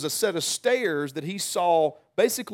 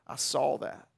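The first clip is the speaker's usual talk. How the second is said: soft whisper-like; 3 semitones lower, 5 dB quieter than usual. Retold or imitated. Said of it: "Jesus just kinda whispers".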